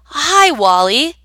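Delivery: hesitant, drawn-out greeting; unsure how to greet a stranger; a witch meeting a double, unsure; uncertain. Acted. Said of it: "said Will uncertainly".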